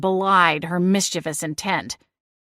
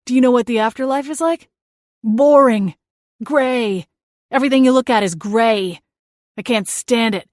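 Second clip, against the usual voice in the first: whiny ghost brother; 2 semitones higher than usual. Acted. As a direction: sulk like a wronged little brother. Seth complains about afterlife.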